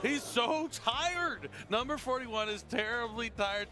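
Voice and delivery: sleepy drawn-out voice. Pretend. Caster voicing a sleepy card.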